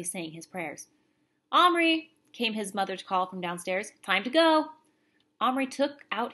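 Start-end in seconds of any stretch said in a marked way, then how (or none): 1.5-2.1 calling out. Acted. Mother calls from downstairs. 4.0-4.7 calling out. Acted. Mother calls from downstairs.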